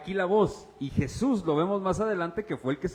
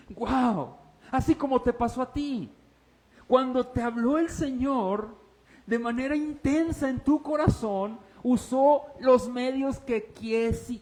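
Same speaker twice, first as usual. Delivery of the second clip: forceful preaching; 7 semitones higher, 4 dB louder than usual. Real, not acted.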